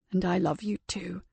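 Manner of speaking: soft whispered tenderness. Acted. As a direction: breathe it softly, exhausted. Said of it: "he whispered".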